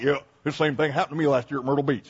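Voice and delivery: fast, offhand voice of a one-upping listener; mock know-it-all. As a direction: lightly mimic a guy who's seen it all. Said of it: "somebody who's gonna come up to me and be like".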